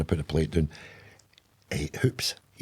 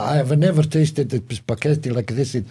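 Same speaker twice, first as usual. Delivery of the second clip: mock Italian accent, slightly raised pitch; imagined Italian accent; 4 semitones higher than usual. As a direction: play a gushing Italian guest with a rough accent. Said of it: "I don't know what accent she uses".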